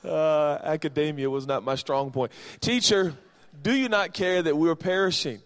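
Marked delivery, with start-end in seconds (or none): 2.6-5.4 disciples' plea. Acted. Disciples' plea acted from scripture.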